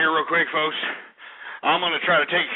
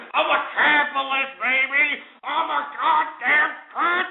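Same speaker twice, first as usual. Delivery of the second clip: higher, proudly shouted boast; 7 semitones higher than usual. Acted. Ranting host to his listeners, proud crowing boast. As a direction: crow it like a proud declaration.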